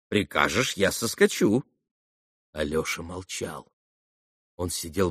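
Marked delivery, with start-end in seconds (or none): 0.1-1.6 живая прямая речь героини; предложи это юноше от её лица; реплика Грушеньки. Acted. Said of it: "Он слышал её слова". (живо, обращаясь к собеседнику)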